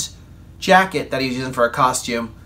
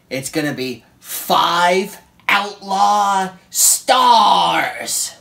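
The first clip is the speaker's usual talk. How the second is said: excited; 4 semitones higher, 5 dB louder, much slower than usual. Real, not acted. Announcing the rating.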